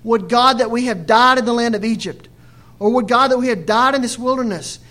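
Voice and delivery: loud, anguished crying out of the crowd; loud lament. Retold or imitated. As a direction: cry it out like a despairing people. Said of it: "the whole congregation said".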